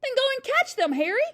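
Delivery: high, loud, insistent order; urgent hiss. A narrator's reading. Mother sending husband after burglars, urgent voiced hiss. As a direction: push a reluctant husband into action. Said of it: "hissed the mother".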